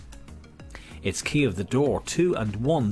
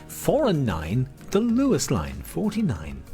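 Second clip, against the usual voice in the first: bingo caller; 4 semitones higher, slower than usual. Acted. Bingo calling.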